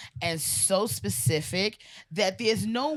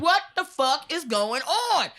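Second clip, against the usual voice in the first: high, drawn-out exasperated outburst; 8 semitones higher, 4 dB louder, slower than usual. Retold or imitated. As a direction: stretch it out like a cop at wits' end. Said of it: "even they exasperated at this point".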